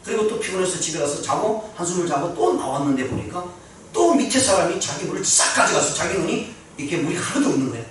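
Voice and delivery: ordinary delivery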